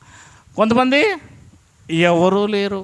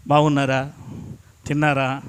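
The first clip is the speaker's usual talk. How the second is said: much lower, much softer sweet greeting; gentle and slow; 10 semitones lower, 5 dB quieter than usual. Retold or imitated. Preacher mimics the soft greeting people expect from him, gentle and low. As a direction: coo it like a mild polite visitor. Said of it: "వచ్చి నిదానంగా".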